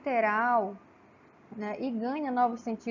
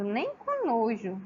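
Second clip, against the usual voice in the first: recusa enfática; slower than usual. Acted. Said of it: "Não vou mesmo".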